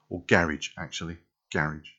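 North London "garage", rhyming with carriage; North London accent. Shown as a demonstration. Correcting a word for viewers, North London accent. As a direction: stress the start of "garage", North London style. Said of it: "word list in a North London accent".

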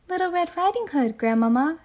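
high, put-on little girl voice; a wolf squeaking like a child; wolf faking child's voice. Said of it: "trying to put on a child's voice".

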